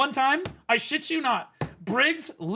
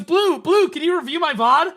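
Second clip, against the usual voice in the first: imitating Briggs; 7 semitones higher, 5 dB louder than usual. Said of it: "he goes".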